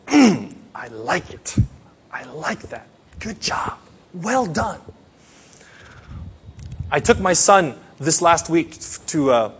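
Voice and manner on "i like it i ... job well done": God's voice. Acted. God voiced approving in sermon.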